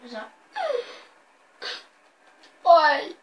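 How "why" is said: slow, drawn-out pretend wail; mock crying. Fouled player crying on the floor, mock wailing. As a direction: sob it out, hammed up and stretched. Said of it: "he starts crying on the floor".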